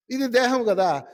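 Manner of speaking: normal talking voice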